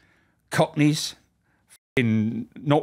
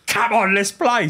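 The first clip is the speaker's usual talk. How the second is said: slow, higher, louder cheerful call; rally him to the game; eager call to play; 9 semitones higher, 5 dB louder, slower than usual. Retold or imitated. Charlie calling George to play cricket, eager and loud. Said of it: "he said".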